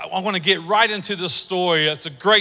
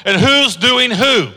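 sing-song teasing; 4 semitones higher, 4 dB louder, slower than usual. Acted. Playful gossip aside, sing-song.

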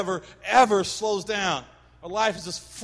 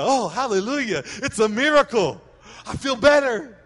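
sudden energy; 5 semitones higher, 5 dB louder than usual. Retold or imitated. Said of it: "All of a sudden the energy comes".

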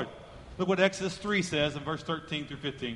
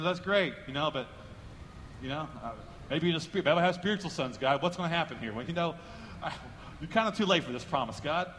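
mock hesitant doubt; 3 semitones lower, 5 dB quieter than usual. Old Abraham doubting God's promise.

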